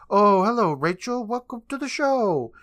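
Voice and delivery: high, theatrical showman greeting; Mister Top Hat. Retold or imitated. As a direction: draw out the welcome in a high sing-song. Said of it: "And Mister Toppet says".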